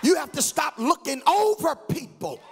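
preaching at full force. Acted. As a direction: stretch each phrase over the music.

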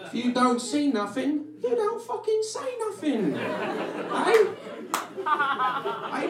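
very high, squealing cartoon taunt; high-pitched, drawn-out goading character voice; mocking heckler character. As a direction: needle them in a high put-on voice. Acted taunting of blind people.

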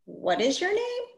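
put-on high curious little boy voice. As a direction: ask like a curious kid. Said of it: "a boy looked at my sticker and asked".

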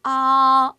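loud open 아 drawn out, mouth wide; Chinese a. Shown as a demonstration. Teacher models 아 for students to repeat, loud and open. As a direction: model the Chinese vowel 아 clearly and loudly. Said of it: "A 우리 한번 읽어볼까요".

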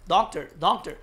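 "doctor" repeated in an American accent; American English take on "doctor". Shown as a demonstration. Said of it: "미국식은 이제 doctor".

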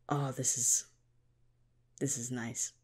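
breathy delighted whisper of this is nice; soft whisper. Retold or imitated. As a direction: hush your voice as if charmed. Enjoying visualized farm scene.

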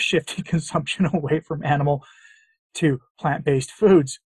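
reading through a laugh; can't keep a straight face; laughing while reading. Real, not acted. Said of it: "Sorry, I can't read that without laughing".

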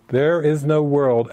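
"There is no world" slowed, every word weighted; emphatic declaration. Retold or imitated. Repeating the lesson's four words, emphatic. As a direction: press evenly on "There is no world". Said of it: "exclamation point after it for emphasis".

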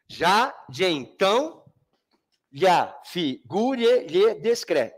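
"Já, de então" slowly chopped into syllables; even, separated syllables stopping on "descre"; metrical scansion. Shown as a demonstration. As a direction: count out "ya, fi, gu, lhe" beat by beat. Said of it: "Conta até a última sílaba tônica".

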